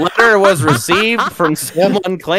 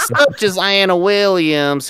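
put-on laughing through accent; 4 semitones higher, slower than usual. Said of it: "I don't know why you kept the accent".

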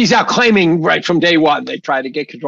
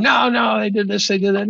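mock screaming protest; 5 semitones higher than usual. Imagined critics objecting about January sixth, mock screaming. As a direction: mimic protesters' objections in a raised pitch. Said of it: "I can hear people screaming".

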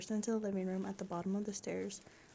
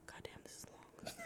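whispered aside; 18 dB quieter than usual. Real, not acted. Aside while reading a long story.

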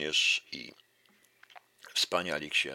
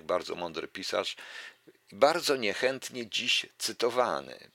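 ordinary talk, nothing marked

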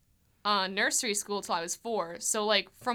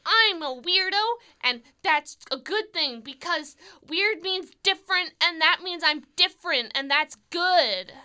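loud, higher, slowing on good; proud declaration; 8 semitones higher, 5 dB louder than usual. Retold or imitated. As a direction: proudly declare being a weirdo. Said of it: "I was like".

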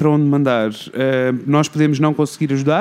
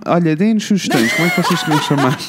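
laughing; 3 semitones higher than usual. Real, not acted. Giggly plea for fan name.

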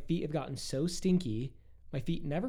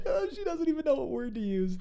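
laughing; 3 dB louder than usual. Real, not acted. Laughing at her censoring.

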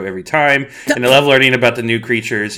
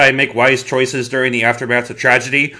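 dramatic recap. Acted. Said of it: "an intro you would like to do".

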